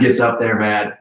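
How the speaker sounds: excited, pitch jumps up; voice going high. Real, not acted. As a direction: voice climbs with excitement. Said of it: "my voice goes high when I get excited".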